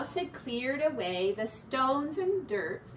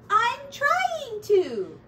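slow, high, weary plea; an exasperated tired mouse, drawn out; 12 semitones higher, 7 dB louder, much slower than usual. Acted. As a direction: drag it out, worn down and tired. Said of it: "I am getting very tired".

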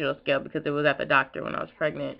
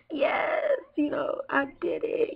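excited; 8 semitones higher, 3 dB quieter, slower than usual. Retold or imitated. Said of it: "I was like".

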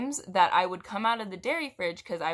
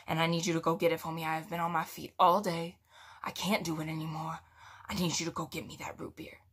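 exhausted demand; 3 semitones lower than usual. Retold or imitated. Exhausted customer demands root beer.

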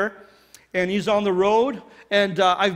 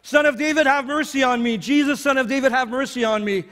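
retold louder yell; 3 semitones higher than usual. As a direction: cry out harder this time, then ease off. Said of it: "and he yells even louder".

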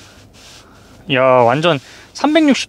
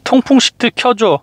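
slow clear command; 6 semitones higher than usual. Shown as a demonstration. Voice command to car.

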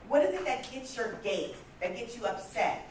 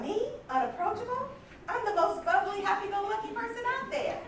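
indignant disbelief; 11 semitones higher than usual. Retold or imitated. Stunned at being called unapproachable.

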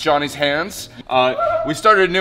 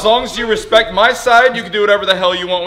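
laughing; 4 semitones higher, 4 dB louder than usual. Real, not acted. Laughing while claiming pizza side.

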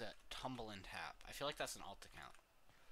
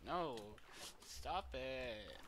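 panicked yelling; 3 semitones higher, much slower than usual. Real, not acted. Being attacked in game.

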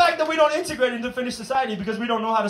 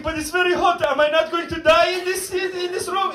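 worried Darfur guy; 4 semitones higher than usual. Retold or imitated. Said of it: "The Darfur guy is like".

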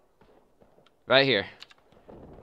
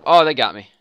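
surprised; 2 semitones higher, 11 dB louder than usual. Real, not acted. Getting shot in game.

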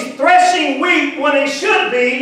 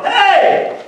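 high, sustained hailing shout; a sudden jump up into a calling voice; yelled call; 5 semitones higher than usual. Retold or imitated. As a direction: act out the angel yelling for attention. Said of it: "I believe he had to yell".

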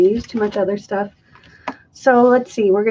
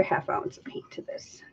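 whispering; 16 dB quieter than usual. Real, not acted. Whispered aside while mixing.

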